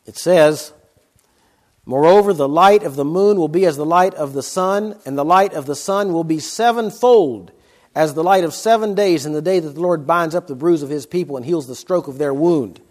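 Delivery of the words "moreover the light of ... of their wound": steady, weighty reading of the prophet; scripture reading. Acted. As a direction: read Isaiah's lament out with gravity. Reads Isaiah verse aloud.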